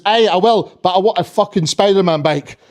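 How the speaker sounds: put-on blunt Scottish kid; stubborn reply in a Scottish accent. Scottish kid answering Santa's invitation, stubborn Scottish accent. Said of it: "this one Scottish kid".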